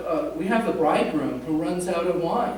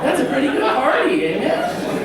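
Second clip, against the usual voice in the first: laughing; 7 semitones higher, 6 dB louder than usual. Real, not acted. Jokes about huge wine party.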